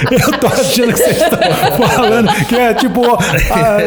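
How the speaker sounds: after laughing hard. Real, not acted. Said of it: "eu tô chorando de rir aqui".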